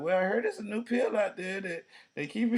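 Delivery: high put-on elderly voice breaking into laughter; old podcaster. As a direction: play an old host, cracking up. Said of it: "Be like".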